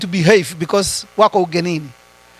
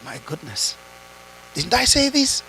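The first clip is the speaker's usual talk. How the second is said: mock exasperation; 2 semitones higher, 6 dB quieter than usual. Parent exasperated alone in the room.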